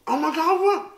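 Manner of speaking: ordinary delivery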